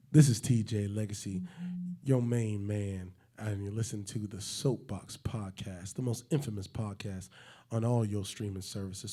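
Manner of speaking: a hint of smooth seductive host; sexy intro. Host doing a sexy intro for the ladies, lightly seductive. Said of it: "sexy intro".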